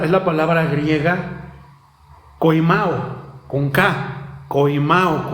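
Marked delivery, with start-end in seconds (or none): 2.4-3.4 "koimao" with the accent on the A; "koimao" shown with a hard K and stressed MA. Shown as a demonstration. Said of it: "con acento en la A". 4.5-5.3 "koimao" stressed on MA. Shown as a demonstration. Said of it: "con acento en la A".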